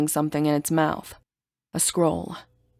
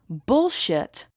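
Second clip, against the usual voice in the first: frustrated; 4 semitones higher than usual. Acted. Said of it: "I say, frustrated".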